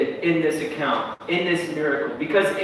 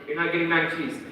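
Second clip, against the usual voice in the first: quiet firm dad; 7 dB quieter, faster than usual. Retold or imitated. Dad refusing the child.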